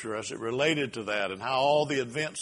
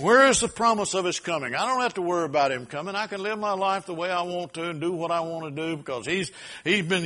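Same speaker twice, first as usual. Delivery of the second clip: raised, insistent voice of a doubter; mocking scoffer; 5 semitones higher, 4 dB louder than usual. Preacher voicing mockers who doubt the second coming, scoffing. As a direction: imitate a defiant mocker, pitched up. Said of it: "there's mockers who come and who, with their mocking".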